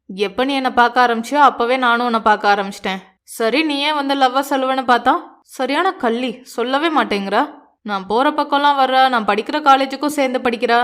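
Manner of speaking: a hint of the hero playfully complaining; lightly voiced teasing hero. Narrator voices Aakash confessing.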